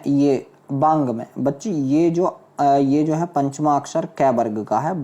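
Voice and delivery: usual speaking voice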